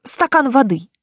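politely asking for water; meek, deferential request; too respectful. Acted. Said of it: "опять получилось слишком уважительно".

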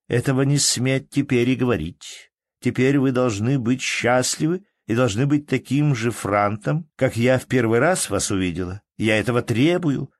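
lightly voiced Nastenka playfully bossy; playful commanding woman. A narrator's reading. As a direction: demand it teasingly. Loving woman commands her lover.

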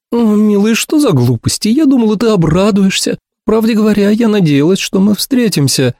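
high, coaxing woman's voice; hopeful Ursula. A narrator's reading. Ursula hoping to meet her friend, high and hopeful.

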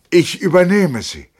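high, forceful pledge; loud declaration. A narrator's reading. Lieutenant takes on his friend's debt, loudly declaring.

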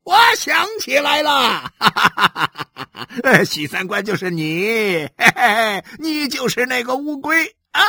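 high mocking laugh-talk. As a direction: laugh through the words, teasing him. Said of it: "他哈哈地笑着对许三观说".

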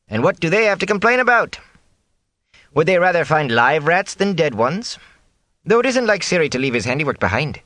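high, brisk motherly cook voice; a bustling cook fussing over the lad; chatty cook. Acted. Cook chatting to Rand over bread dough, high and brisk.

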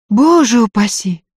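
high, startled cry of alarm; frightened. A narrator's reading. Varya alarmed at Andrey's offer, high frightened exclamation. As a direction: recoil from the very idea. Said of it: "испугалась Варя".

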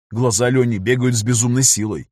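usual speaking voice

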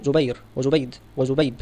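جبير, جبيد and جبيب each ending clearly in ra, dal and ba; careful name pronunciation. Shown as a demonstration. Teacher to students contrasting three names, carefully. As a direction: say جبير وجبيد وجبيب, stressing each final consonant. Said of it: "الأول آخره راء والثاني آخره دال".

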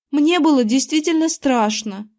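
ordinary delivery

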